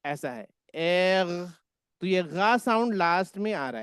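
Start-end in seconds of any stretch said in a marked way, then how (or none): 0.0-1.5 एर drawn out slowly with a throaty rasp at the end; slow एर, rolling the R at the back of the throat; German R demo. Shown as a demonstration. Teacher showing the class the German R, slow and throaty. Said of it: "वो almost कैसा है?".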